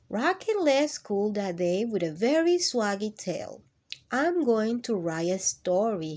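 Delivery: lively picture-book reading voice; reading to children. Acted. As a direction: read it warmly to a class of kids. Reads picture book aloud.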